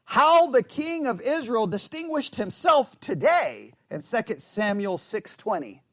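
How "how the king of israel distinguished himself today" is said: slow, mocking sarcasm, pitch lifted; mocking praise; sarcastic. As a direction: drip with scorn at the king. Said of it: "Or sarcasm".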